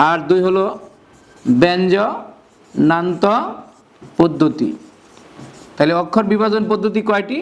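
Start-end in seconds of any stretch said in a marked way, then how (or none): 1.5-4.7 term drawn out in separate chunks; slow dictation. Shown as a demonstration. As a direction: stretch each part for note-taking. Dictating the second term slowly. (টেনে টেনে, ভেঙে ভেঙে বলা)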